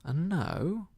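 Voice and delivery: carrying on out loud; aloud again. A narrator's reading. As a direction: return to full voice for everyone to hear. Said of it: "he ran on again, aloud".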